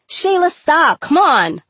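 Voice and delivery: high, urgent pleading shout; begging. A narrator's reading. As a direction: beg a friend to stop right now. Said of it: "Ashley begged".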